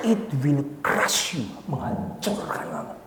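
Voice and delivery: hushed, heavy-hearted warning; tearful warning. Acted. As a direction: warn slowly under your breath. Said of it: "sambil nangis".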